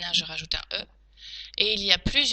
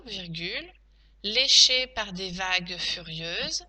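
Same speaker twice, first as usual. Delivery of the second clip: slow teacher dictating, punctuation named; careful, spaced-out phrases; dictation; slower than usual. Shown as a demonstration. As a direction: dictate it chunk by chunk.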